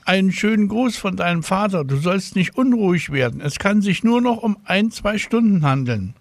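high voiced caller on the telephone; a nurse calling a child with news, high and friendly; woman on the phone. A narrator's reading. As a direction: lift the voice high for the stranger on the line.

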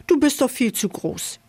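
a hint of a titter in a high voice; giggly mouse. A narrator's reading. Dancing mouse turning down the big camel, mildly giggly. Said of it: "kicherte die Tanzmaus".

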